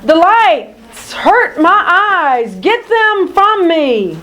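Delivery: whining mole, breaking high in pain; pained villain. Acted. Odious Mole blinded by fireflies, pained whining. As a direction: wail about the hurting light.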